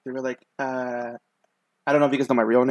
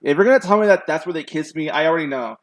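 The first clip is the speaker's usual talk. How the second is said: mock exasperated retort; 3 semitones higher, 7 dB louder than usual. Retold reply to pastor's wife.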